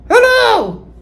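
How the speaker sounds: high, loud distant-sounding hello; echo delay demo. Shown as a demonstration. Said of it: "I'll do my ventriloquist".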